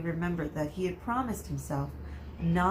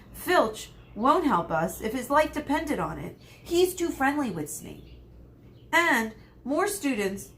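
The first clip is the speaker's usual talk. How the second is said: Harry; 6 semitones higher, 5 dB louder than usual. A narrator's reading. Harry argues against going.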